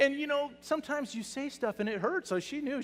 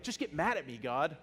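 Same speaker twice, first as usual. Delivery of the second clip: louder, higher plea to be yelled at; begging to be scolded; 4 semitones higher, 5 dB louder than usual. Retold or imitated. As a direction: demand the anger you think you deserve. Pleading with God to yell.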